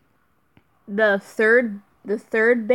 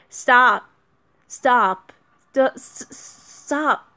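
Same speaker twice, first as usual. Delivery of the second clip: a sharp, louder plea; loud stop; 3 semitones higher, 4 dB louder, much slower than usual. Real, not acted. Streamer begging the game to stop, loud. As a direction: cut it off, loud and pleading.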